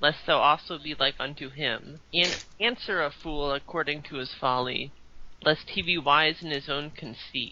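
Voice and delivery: ordinary delivery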